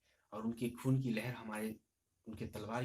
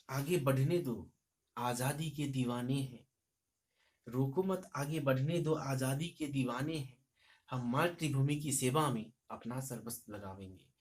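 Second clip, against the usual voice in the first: poem recitation; 2 semitones higher, 3 dB louder than usual. Shown as a demonstration. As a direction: rouse the listeners. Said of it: "कवि कहते हैं कि".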